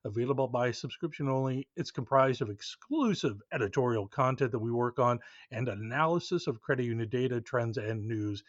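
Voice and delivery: upbeat promo read. Acted. Host reading a subscription ad to listeners, upbeat promo voice. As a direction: sell the newsletter to listeners.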